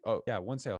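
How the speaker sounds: ordinary delivery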